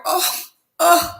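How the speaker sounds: high startled oh oh after a gasp; shocked gasp. Retold or imitated. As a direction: gasp at the follower count, then a high oh oh. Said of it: "and I went".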